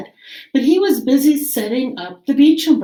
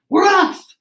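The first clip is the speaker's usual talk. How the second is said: high, louder cheer; crew shouting; 8 semitones higher, 3 dB louder than usual. Acted. Pirate crew cheers as they set sail, high cheering shout. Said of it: "all shouted".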